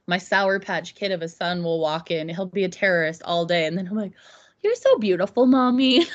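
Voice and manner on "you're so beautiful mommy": put-on a light, higher sweet-talking little boy; sweet little son. Mom imitating her son's sudden sweet talk, lightly higher.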